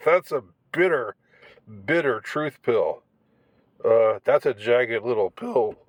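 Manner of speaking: cracking voice mid-phrase; voice breaking. Real, not acted. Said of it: "Sorry, my voice broke".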